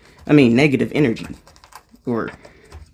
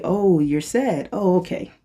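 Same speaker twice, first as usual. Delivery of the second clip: gentle acceptance; 3 semitones higher, slower than usual. Retold or imitated. Gently greeting own sadness.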